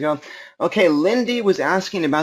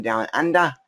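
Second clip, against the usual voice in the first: playful, badly faked Australian accent; mock Australian accent; 3 semitones higher than usual. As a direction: put on a silly Aussie accent. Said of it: "my Australian accent is horrible".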